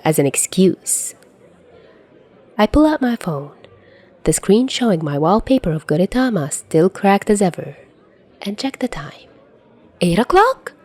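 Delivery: first-person fanfic read with rising panic; story narration. A narrator's reading. Podfic reader narrating to listeners.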